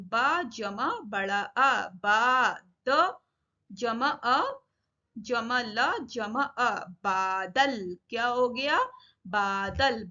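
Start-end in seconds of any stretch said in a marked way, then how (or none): 0.1-6.7 slow teacher spelling, part by part; measured letter-by-letter breakdown; sounded out separately. Shown as a demonstration. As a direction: spell बादल out piece by piece, slowly. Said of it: "अलग-अलग करके लिखना या पढ़ना".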